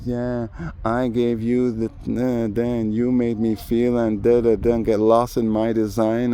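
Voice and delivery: imitating pop singer. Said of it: "sounding like a pop artist saying".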